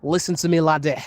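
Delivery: tentative Scottish accent attempt. Shown as a demonstration. Streamer attempting a requested accent for viewers, rough Scottish accent. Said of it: "Scottish accent".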